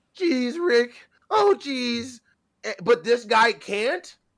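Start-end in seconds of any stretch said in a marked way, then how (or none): 0.2-2.2 put-on cartoon character voice, higher. Complaining about the new actor, showing how easily anyone does Morty voice. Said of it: "Everybody and their mom can do a".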